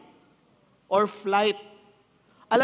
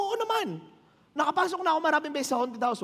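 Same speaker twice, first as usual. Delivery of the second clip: higher, quick boastful brush-off; cocky reply; 7 semitones higher, faster than usual. Retold or imitated. Coach telling the pastor's son, mildly cocky and quick. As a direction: lightly toss off the boast, fast. Boasting retold to horror question.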